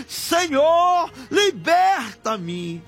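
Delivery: drawn-out cry for mercy, dropping away at the end; imitated pleading cry. Preacher voicing a repentant person begging God for freedom, pleading cry. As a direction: cry out slowly as the penitent would. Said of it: "clamando a ti, dizendo".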